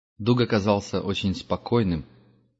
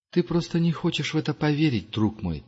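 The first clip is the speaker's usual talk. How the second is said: gentle; 7 semitones higher than usual. Acted. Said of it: "мягко произнёс Пилигрим".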